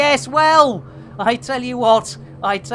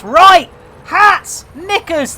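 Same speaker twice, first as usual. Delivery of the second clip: loud, higher burst of silly cries; jolly exclamations; 8 semitones higher, 7 dB louder, slower than usual. Real, not acted. Streamer rallying chat before the jump, jolly loud exclamations. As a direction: bark out nonsense with glee.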